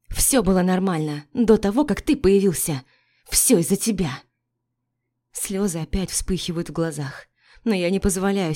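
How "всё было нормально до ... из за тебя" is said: angry accusation. Acted. Wife blames him tearfully.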